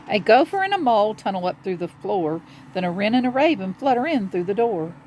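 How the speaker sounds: quick, bouncy rhyme reading; children's story narration. A narrator's reading. Telling children of animals gathering in the cave, brisk storytelling. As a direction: bounce along the rhyme for young listeners. Reads a picture book aloud.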